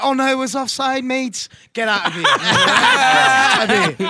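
put-on light Liverpool fan accent; mock Scouse accent. Mocking Liverpool fans about offside, Scouse accent. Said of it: "We don't condone that accent".

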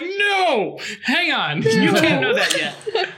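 high, loud and slowed; alarmed protest. Retold or imitated. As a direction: stop them before the spoiler lands. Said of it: "I was like".

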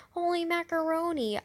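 dismayed exclamation; high loud holy macaroni. Acted. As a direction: sister realizing her mistake, high loud exclamation. Judy realizing she forgot.

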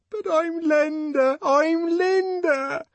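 very high, drawn-out desperate wail. A narrator's reading. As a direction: insist on being recognised, desperately. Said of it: "Desperately she clung".

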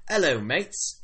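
rough attempt at Australian accent; chummy put-on Australian hello. Orc greeting the visitors, in an Australian accent. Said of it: "This turned into an Australian accent".

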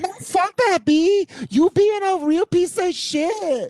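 mock tough cop lady. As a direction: ham up the cop lady telling her off. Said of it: "she's like".

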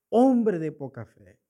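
Cristo. Retold or imitated. Christ to Peter just saved, imitated slow rebuke. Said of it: "lo reprende".

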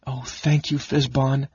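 small, high kender squeak; little high-pitched creature voice. A narrator's reading. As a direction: squeak out thanks in a tiny voice. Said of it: "the Kinder squeaked".

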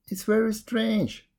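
high, slow puzzlement; mildly sad jackal. A narrator's reading. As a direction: lament it in a high voice. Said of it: "said the jackal sadly".

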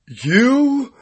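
slow, whiny mock sob; mock crying. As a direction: drag it out like a fake cry. God mocking Joe.

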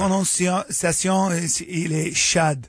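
slow, faltering mock French; mock French accent. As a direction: pronounce it in halting fake French. Mock French pronunciation of Chad.

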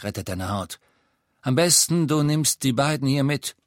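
höher, schroff und verbittert; Aberforth, resigniert. Acted. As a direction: jede Hoffnung abtun. (verbitterter alter Zauberer)

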